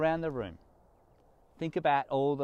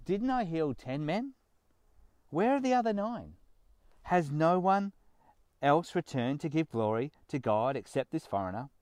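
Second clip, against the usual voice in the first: disappointed Jesus; 3 semitones higher than usual. Acted. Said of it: "hear the disappointment in Jesus' voice".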